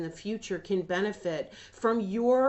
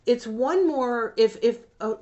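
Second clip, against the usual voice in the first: emotional, slowed; getting emotional; 3 semitones higher, 6 dB louder than usual. Real, not acted. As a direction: let the feeling catch in the throat. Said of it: "I'm gonna try not to get emotional".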